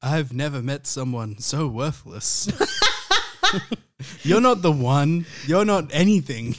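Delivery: Oracle voice. Acted. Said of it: "What does the Oracle say to you?".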